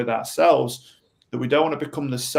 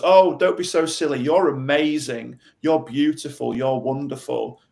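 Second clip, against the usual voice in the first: mock rescuer. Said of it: "the rescuer goes".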